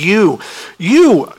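pointing at the disciples, repeat YOU with force; emphatic command. Pretend. Preacher voicing Jesus insisting the disciples feed them, emphatic. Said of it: "And it's very emphatic".

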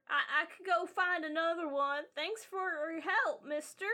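lightly voiced kid giving thanks; polite kid. Kid thanks mister for the help, polite child voice.

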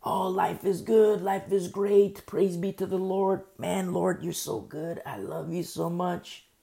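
slow, drawn-out happy praise; contented praise. Acted. Believer praising the Lord while life is good, slow and contented. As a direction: praise with easy, unhurried contentment.

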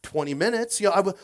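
loud, high mock indignation; hammed-up self-justifying outburst; defensive protest. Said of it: "does that sound like some of us".

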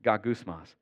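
"Gagusmas" said neatly for learners, middle syllable stressed; teaching a Greek word. Shown as a demonstration. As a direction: repeat "Gagusmas" as gah-GOOS-mahs. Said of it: "Isn't that kinda fun to say?".

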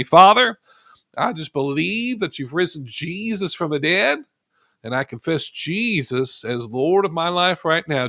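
earnest prayer, slowing and quieting at the amen; salvation prayer. Acted. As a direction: lead the listeners line by line in prayer. Leads salvation prayer aloud.

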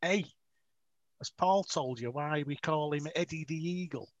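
imitated Scouse delivery driver; thick Scouse accent. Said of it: "this Scouse driver would come in and go".

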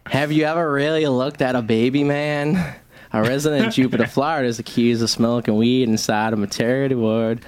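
comedy news-anchor delivery; mock news read. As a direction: read it out like a local crime bulletin. Reads mock crime news segment.

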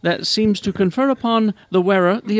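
lightly put-on British newsreader accent; BBC presenter. Host retelling the show's story, mock BBC British presenter. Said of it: "as a B B C presenter then".

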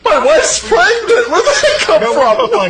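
high, slow mocking whine with laughter. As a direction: whine it like a parody. Mocking the agent's plea.

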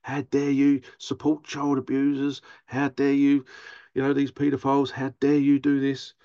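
mock angry rant. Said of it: "I could be very angry".

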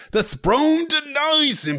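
very high, slow, strained cry; cried out. Acted. Wounded knight crying out to the whole hall, slow high wail. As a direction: wail it like a prophet. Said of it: "he cried".

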